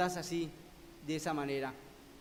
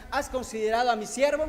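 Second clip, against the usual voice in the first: God speaking; 3 semitones higher, 6 dB louder than usual. Acted. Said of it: "Dios le está diciendo a Satanás".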